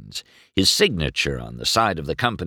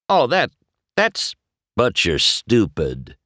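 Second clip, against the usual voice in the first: the king; 6 semitones higher, 5 dB louder than usual. Acted. The king correcting.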